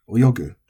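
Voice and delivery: oyogu punched on yo, then falling; accented. Shown as a demonstration. Teacher demonstrating an accented verb, oyogu with a drop after yo.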